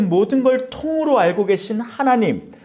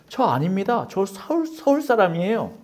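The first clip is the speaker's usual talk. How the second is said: Busan dialect. Acted. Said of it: "부산 사투리로".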